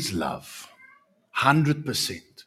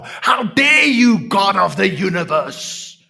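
defiant from hell; 8 semitones higher, 8 dB louder than usual. Acted. A damned soul accusing God, furious shout. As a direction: rage at God from below. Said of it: "defiant from the pits of hell".

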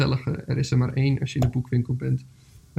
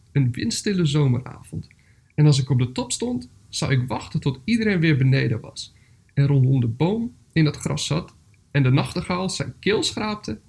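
levendig voorlezen met golvende melodie en pauzes; voorleesverhaal; 3 dB louder than usual. A narrator's reading. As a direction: lees het voor als een verhaaltje, met nadruk op sleutelwoorden. (verhalende voorleesstem)

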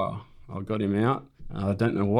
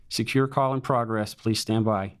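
automated American female voice. Retold or imitated. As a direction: recite it like a polite machine announcement. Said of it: "this American voice in your ear saying".

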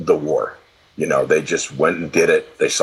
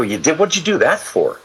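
rising, incredulous disbelief; lightly acted surprise at his mom's news; retold surprise; 11 semitones higher than usual. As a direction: ask it like you can't believe she signed up. Son reacting to mother's war story.

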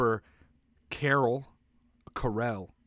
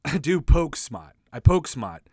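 secret code; 5 dB louder than usual. Pretend. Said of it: "I did a little secret code there".

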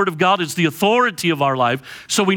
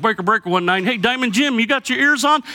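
rising, higher trucker radio call; CB radio talk; 5 semitones higher than usual. Retold or imitated. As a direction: hail a buddy over the CB. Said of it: "so it's like".

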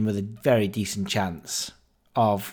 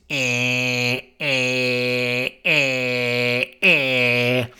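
imitated machine whirr; much slower than usual. A gambler mimics the note machine to the audience, mechanical buzz. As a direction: mimic the cash machine gulping notes. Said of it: "it makes this kind of noise".

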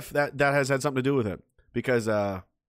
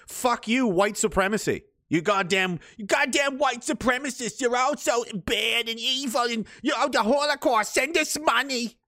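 high, hammed-up sneering voice, slowing to drag out the last words; shrill mock-accusation, shouted then drawn out; mocking caricature voice; 10 semitones higher than usual. Speaker mocking critics, high sneering caricature voice. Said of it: "what we get is".

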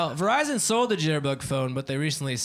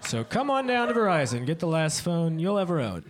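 mock sales pitch; 3 semitones higher than usual. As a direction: sell it like a parody TV ad. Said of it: "this should have been Verizon's pitch for the Jitterbug".

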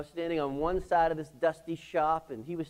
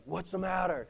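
alarmed reply; 5 semitones higher than usual. Retold or imitated. Wife's alarmed reply on phone.

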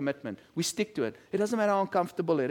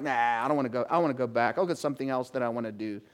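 whiny John Mark; 8 semitones lower, 4 dB quieter, faster than usual. Retold or imitated. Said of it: "John Mark's like".

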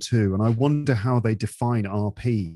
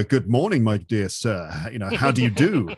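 overly formal. Shown as a demonstration. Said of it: "rather than saying things like".

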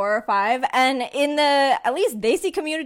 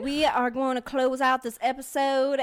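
put-on Southern accent, amused; playful Southern sign-off; Southern twang. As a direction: hold a country twang while nearly cracking up. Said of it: "Keep it up, girl".

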